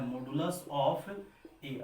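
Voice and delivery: slow, drawn-out imitation of a student misreading "modulus of A"; mock wrong reading. Shown as a demonstration. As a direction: mimic the student saying "modulus of A" wrongly, very slowly. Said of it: "बोल रहा है कि modulus of A ... बिल्कुल गलत है".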